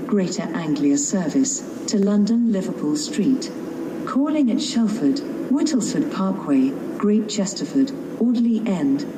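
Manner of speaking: on a train platform. Real, not acted. Station announcement over platform speakers.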